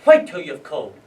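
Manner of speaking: loud officer's command; forceful, acted shout; barked order. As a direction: bark it at a line of prisoners. Officer ordering the prisoner back.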